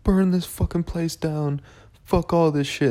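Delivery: high, slow mock-furious rant; mock rage. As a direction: play the fed-up self who wants to burn it all down. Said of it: "I'll be like".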